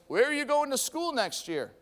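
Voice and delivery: lightly imitated yell; mock yell. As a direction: call it out like a heckler. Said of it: "someone from Purdue yells".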